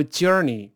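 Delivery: journey开头读成拼音的“鸡”; 示范错误的journey，j不翘舌、读成“鸡”音; 错读开头j. Shown as a demonstration. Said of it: "前面不要读journey". (journey读成“鸡”开头)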